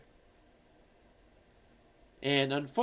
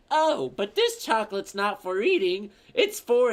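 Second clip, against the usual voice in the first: higher, animated cartoon salesman; SpongeBob; 4 semitones higher, 4 dB louder than usual. Cartoon seller explaining the chocolate, higher eager voice. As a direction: pitch it up like an eager cartoon character. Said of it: "SpongeBob's like".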